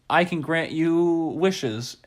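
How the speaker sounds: slow, drawn-out magical announcement; magic duck. Acted. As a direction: grant it slowly, like a lightly voiced genie. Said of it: "And so the duck goes".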